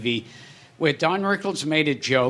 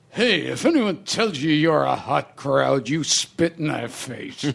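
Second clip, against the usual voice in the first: disgusted comic, lightly put on; imitating Rodney. Retelling a bombing comedian's line to the audience, mildly disgusted. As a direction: address the room with mock disgust. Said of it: "looked around disgustedly and said".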